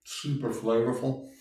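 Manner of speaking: talking with a mouth full of pasta; words round a bite of food. Real, not acted. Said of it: "Sorry for talking my mouth full".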